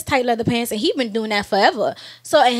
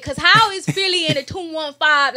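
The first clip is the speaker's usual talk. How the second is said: louder, higher mimicked Philly accent; mock Philly accent; 5 semitones higher, 4 dB louder than usual. Teasing co-host by echoing the words, mock Philly accent. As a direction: parrot it back in a Philly accent. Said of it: "that's a different accent that you just said".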